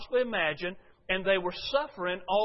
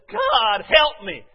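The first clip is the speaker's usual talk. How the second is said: God, help me called out louder and higher; mock cry for help; 4 semitones higher, 12 dB louder, much slower than usual. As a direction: cry it up to heaven.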